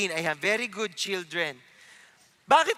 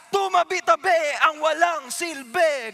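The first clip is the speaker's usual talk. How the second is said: cocky swagger; 5 semitones higher, 4 dB louder than usual. Pretend. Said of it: "Ganyan sila".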